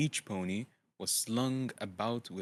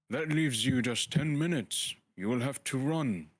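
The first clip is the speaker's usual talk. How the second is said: higher, louder urgent wizard; wizard hurrying; 5 semitones higher, 5 dB louder than usual. Acted. Gandalf hurrying Bilbo off to the inn, loud and urgent. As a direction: push him out the door with a raised voice.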